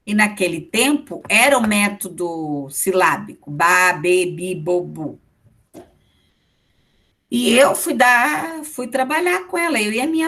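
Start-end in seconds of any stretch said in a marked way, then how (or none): 3.5-5.2 syllable drill. Shown as a demonstration. Teacher recalling the syllabic reading method, drill recitation. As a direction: recite the vowel series like a primer drill.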